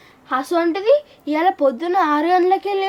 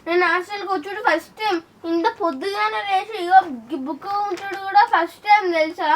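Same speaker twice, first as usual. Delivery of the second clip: whining on the edge of tears; tearful complaint. Acted. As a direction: complain as if about to burst into tears. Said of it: "నాకు ఏడుపు వస్తుంది". (ఏడుపు గొంతుతో గోడు)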